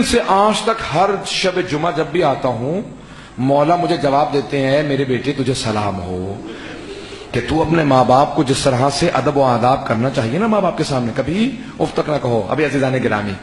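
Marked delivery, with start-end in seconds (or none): 4.8-12.5 lowered, tender voice of the Imam; tender blessing. Acted. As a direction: bless the son gently. Imam's voice blessing the son.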